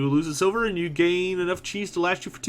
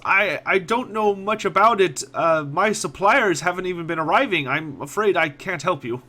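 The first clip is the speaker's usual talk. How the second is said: shrugging merchant; 4 semitones higher, 3 dB louder than usual. Acted. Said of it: "shrugs a bit".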